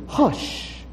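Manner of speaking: a breathy whispered hush. Acted. Jesus rebuking the sea, whispered command. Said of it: "rebuked the wind and said to the sea".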